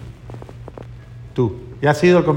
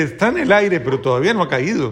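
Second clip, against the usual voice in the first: half-laughing reply, innocent; amused reply; 2 semitones higher than usual. Retold or imitated. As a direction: explain it innocently, laughing through the end. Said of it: "Y dice".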